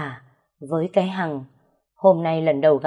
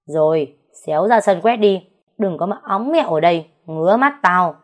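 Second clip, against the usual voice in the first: harsh scolding; 5 dB louder than usual. Acted. First wife berating the new concubine.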